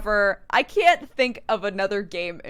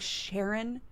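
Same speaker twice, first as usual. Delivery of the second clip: quiet, puzzled rising call of Sharon; questioning Sharon; 9 dB quieter than usual. Retold or imitated. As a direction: murmur Sharon as a doubtful question. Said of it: "I'm like".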